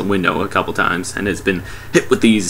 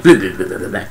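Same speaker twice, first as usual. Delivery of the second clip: alien gibbering; 2 semitones lower, faster than usual. Retold or imitated. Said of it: "the alien that's all like".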